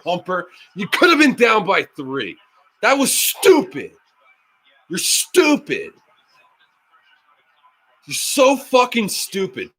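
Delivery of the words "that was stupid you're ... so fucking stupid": high, crying whine of frustration; whiny frustrated wail. Real, not acted. Fan whining at the coach over a bad call, high wail. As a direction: wail it like a fed-up fan near tears.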